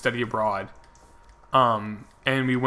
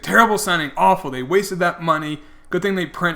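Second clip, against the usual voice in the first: imitating a griping fan, pitched up; bitching; 4 semitones higher, 4 dB louder than usual. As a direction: complain loudly in a higher mock heckler's voice. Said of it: "bitching about it".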